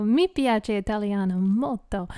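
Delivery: casual spoken Italian phrase; a bit of Italian. Shown as a demonstration. Streamer shows chat the Italian she learned, in casual Italian. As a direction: say it in easy conversational Italian. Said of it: "I can actually speak more Italian".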